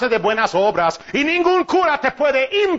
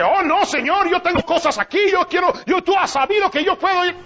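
whiny Paul, mocked; 7 semitones higher than usual. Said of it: "Y él dice".

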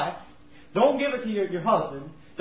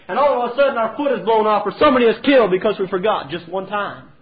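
preaching loud; 6 dB louder than usual. Acted. Preacher drives home the warning.

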